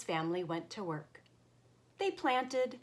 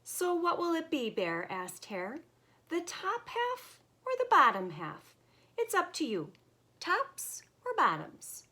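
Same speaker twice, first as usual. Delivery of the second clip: sly Hare voice; 10 semitones higher than usual. Acted. Hare offering choice.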